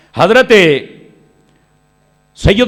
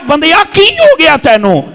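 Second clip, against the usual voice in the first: impassioned call; 11 semitones higher, 5 dB louder, slower than usual. Retold or imitated. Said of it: "او فرمایا".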